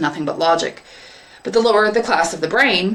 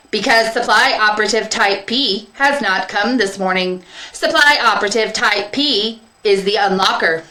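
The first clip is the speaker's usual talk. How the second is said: higher, louder literal machine voice; seed distributor robot; 3 semitones higher, 3 dB louder than usual. Acted. Distributor explaining the missing unlocker, literal. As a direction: recite it like a simple machine.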